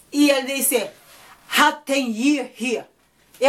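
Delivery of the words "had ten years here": slow, halting broken English; hesitant accented English; slow, accented mock reply. Immigrant mangling English to cop.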